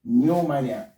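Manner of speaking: "Pneumonia" said as "nyoo-MAH-nia"; silent P. Shown as a demonstration. Teacher corrects the mistake, P silent in "Pneumonia". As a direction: open "Pneumonia" on the N, no P. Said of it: "not pneumonia".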